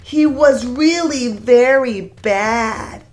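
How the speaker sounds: gentle sing-song storybook reading; lilting read-aloud for a class; reading to children. A narrator's reading. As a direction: read it like storytime for little kids. Reads picture book aloud.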